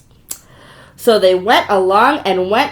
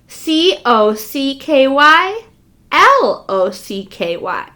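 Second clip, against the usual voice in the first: spelling slowly; slower than usual. Shown as a demonstration. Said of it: "Spelled almost the same".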